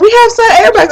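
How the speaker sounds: high-pitched imitation of a friend; mimicked friend. Friend reassuring about side airbags, mimicked in a high voice.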